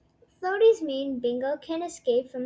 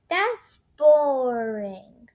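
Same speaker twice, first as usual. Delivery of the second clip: bored whine; 5 dB louder, much slower than usual. Acted. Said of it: "but Bluey doesn't want to".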